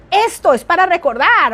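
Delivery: Esto es para recordar lifted a little, stressing esto; emphatic reminder. Shown as a demonstration. Teacher modeling how to flag something important. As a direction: point it out so they remember.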